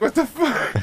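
very high, amused imitation of a shocked man; mock startled. Retelling a delivery man getting sprayed, mock startled. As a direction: squeak it out through a laugh.

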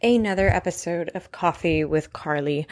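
real irritation in a show welcome; irritated. Real, not acted. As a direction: greet the listeners with irritation. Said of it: "Why do I sound so irritated".

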